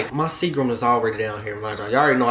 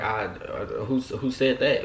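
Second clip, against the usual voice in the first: halting, softer acted fluster; choked-up stammer; 5 dB quieter, slower than usual. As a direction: stall and trip over the words. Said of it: "I'm so choked up".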